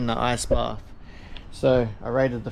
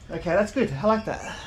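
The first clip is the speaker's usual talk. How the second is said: laughing; 6 semitones higher than usual. Real, not acted. Laughs in the cold bath.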